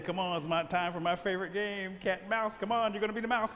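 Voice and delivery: rally a reluctant playmate; playful big-cat eagerness; eager panther. Acted. Panther eagerly starts his game.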